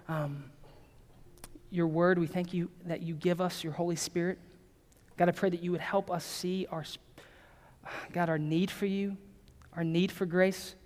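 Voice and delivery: subdued, sincere spoken prayer; closing prayer. Real, not acted. Pastor praying for the church before worship, quietly prayerful. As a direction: pray to God in a softened, even voice.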